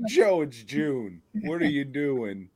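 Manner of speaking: lightly hammed-up flamboyant voice. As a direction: camp it up a little.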